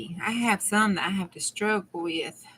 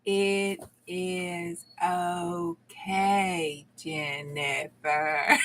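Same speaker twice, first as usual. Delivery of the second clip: very slow, soft, lower mock comfort; very slow, softer playful reassurance; mock soothing; 3 semitones lower, 6 dB quieter, much slower than usual. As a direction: drag it out like calming a child, joking. Mock-soothing a laughing viewer.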